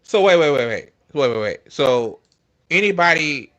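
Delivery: incredulous. Real, not acted. Stops in disbelief at tweet.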